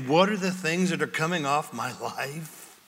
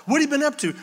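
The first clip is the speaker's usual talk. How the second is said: much higher, bright eager question; cheery church member; 10 semitones higher, much faster than usual. Acted. Pastor voicing a church member greeting Paul, high eager question.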